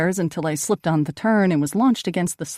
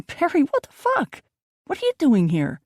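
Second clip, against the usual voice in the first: shocked yell; 11 semitones higher than usual. A narrator's reading. Brother shouts back.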